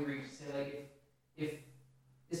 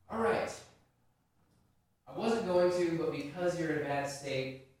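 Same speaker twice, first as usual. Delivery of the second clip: reluctant, grudging condescension; hesitant pity; 4 dB louder than usual. Retold or imitated. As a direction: give in as if doing a favour. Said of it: "hesitant pity".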